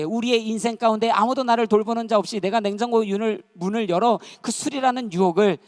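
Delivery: loud, high, impassioned preacher delivery; forceful preaching. Real, not acted. Preacher warning the congregation about facing temptation alone, forceful. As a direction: press each phrase with rising urgency.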